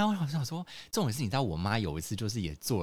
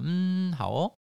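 perfunctory reply; 9 semitones higher, much slower than usual. Retold or imitated. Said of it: "你就要敷衍他啊".

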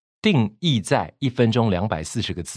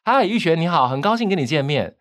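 higher pitch, projected greeting; voice for a hundred people; 5 semitones higher than usual. Shown as a demonstration. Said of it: "一百个人叫". (对一百个人打招呼，音调更高)

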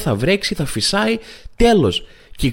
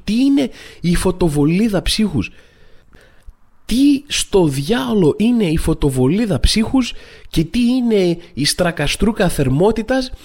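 exasperated disbelief; 5 semitones higher than usual. Acted. Comedian ranting at absurd weather terms, exasperated disbelief.

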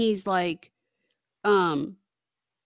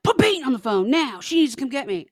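slightly raised, insistent mock order; mock demanding; 3 semitones higher, 4 dB louder, faster than usual. Drunk caller demanding Peyton come to the phone, lightly mocked demanding. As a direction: imitate an irate caller making demands. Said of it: "And he's like".

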